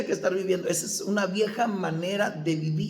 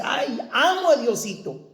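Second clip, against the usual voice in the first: higher-pitched imitation of gushing piety; mock devotion; 5 semitones higher than usual. Preacher mimicking people who think they love God, mock-devout. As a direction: play someone sweetly professing love, lightly mocked.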